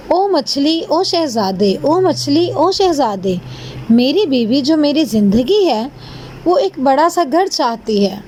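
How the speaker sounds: mild storybook summons, names rising and falling; lightly acted fisherman's call to the sea; calling out to fish. Fisherman asks fish for a big house, mildly calling out. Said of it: "سمندر پہ پھر آواز لگائی".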